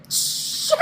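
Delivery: loud, high laughing curse; panicked mock yelp; retold alarm. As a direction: blurt it through laughter. Caught again, retold.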